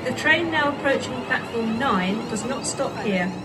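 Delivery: over the station tannoy; echoing platform PA voice; train station announcement. Real, not acted.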